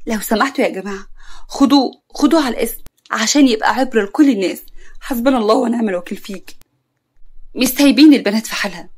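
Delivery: indignant accusation. Acted. Acted public accusation, calling crowd.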